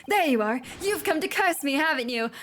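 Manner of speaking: theatrical alarmed accusation; accusing ghost. Acted. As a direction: point and accuse the spirit.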